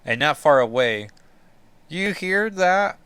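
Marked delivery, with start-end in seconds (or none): 1.9-3.0 high and slow, drawn out; Sim, high, slow and wary. Acted. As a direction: lean in, eerie and listening, pitched up. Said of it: "Sim says".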